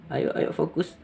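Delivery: whispered to herself; whispering. Real, not acted. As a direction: hush it under your breath. Reader urging herself to focus.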